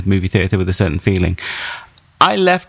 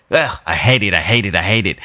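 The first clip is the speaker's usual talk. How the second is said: lower-pitched mock disgust in a rough Spanish accent; attempted Spanish accent; 4 semitones lower than usual. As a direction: imitate a friend's loathing, putting on a Spanish accent. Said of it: "Joe's attempt at a Spanish accent".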